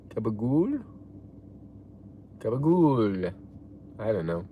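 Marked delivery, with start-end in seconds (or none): 0.1-0.8 tentative Italian accent, rising at the end. Shown as a demonstration. Trying the word for a viewer who asked, Italian accent. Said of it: "Say gabagool with an Italian accent". 2.4-3.3 drawn-out Italian accent, falling at the end. Shown as a demonstration. Second try at a viewer's request, Italian accent. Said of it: "Say gabagool with an Italian accent".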